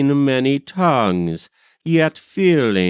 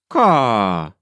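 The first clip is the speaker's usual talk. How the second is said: crow caw. A narrator's reading. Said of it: "like the ravens on the treetops".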